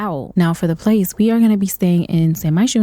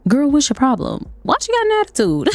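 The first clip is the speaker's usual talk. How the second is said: high, fast disbelief at the waitress; incredulous; 5 semitones higher than usual. Real, not acted. Gamer reacting to a rude sim, incredulous. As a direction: ask in shocked disbelief.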